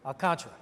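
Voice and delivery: Alcantara as al-KAHN-truh, three syllables; settled pronunciation. Shown as a demonstration. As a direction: land on KAHN in Alcantara, with a short final truh. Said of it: "need a little extra help figuring that one out".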